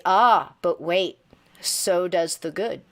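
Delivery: slow. Real, not acted. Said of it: "and I say".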